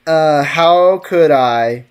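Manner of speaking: drawn-out "how could I", very slow; slow mock-dramatic. Shown as a demonstration. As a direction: stretch "Uh, how could I?" out theatrically. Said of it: "repeated line, slow dramatic take".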